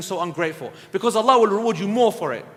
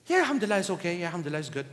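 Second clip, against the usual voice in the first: lower, softer strained politeness; forced polite reply; 5 semitones lower, 7 dB quieter, much faster than usual. Retold or imitated. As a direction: grit out the pleasantry, reluctant.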